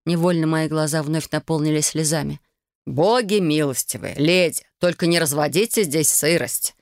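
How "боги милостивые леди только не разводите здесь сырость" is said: mournful groan. Acted. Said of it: "горестно простонал мужчина".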